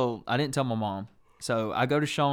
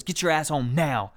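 higher mock parental order; imitated angry mom; 4 semitones higher, 4 dB louder than usual. Mom ordering son home as she leaves, imitated angry command. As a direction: snap the command as she storms out. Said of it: "stormed out of there".

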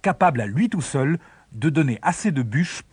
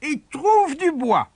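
mother voice; 10 semitones higher than usual. Acted. Mère envoie le fils chercher bois.

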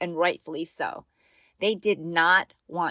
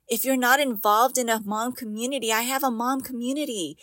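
laughing; 4 semitones higher than usual. Real, not acted. Laughing through the line.

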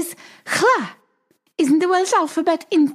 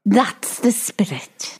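whispered encouragement; 9 semitones lower, slower than usual. Acted. Colleague whispering encouragement to Tom.

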